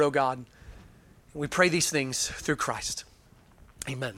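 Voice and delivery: earnest, reverent pastor's prayer. Acted. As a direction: pray over the congregation, unhurried. Opening prayer before sermon.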